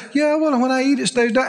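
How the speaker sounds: careless, offhand "when I eat, it stays down"; half-hearted saying. Retold or imitated. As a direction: toss it off without believing it. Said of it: "this is where people lose it".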